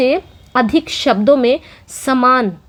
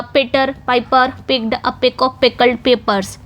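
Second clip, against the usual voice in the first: slow demo; slower than usual. Shown as a demonstration. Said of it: "teacher demonstrating alliteration".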